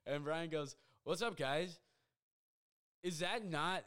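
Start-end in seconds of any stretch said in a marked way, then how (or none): 1.0-1.8 higher-pitched oblivious hello; imitated cheery greeting. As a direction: play the friend greeting the group. Oblivious friend greets group.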